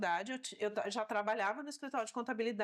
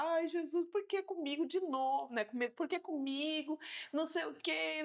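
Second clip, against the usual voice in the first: tearful lament; 4 semitones higher than usual. Retold or imitated. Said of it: "comecei a chorar".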